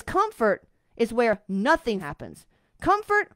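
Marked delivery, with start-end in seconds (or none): 2.8-3.3 scornful exclaim. Real, not acted. Mocking the comfort she scorns.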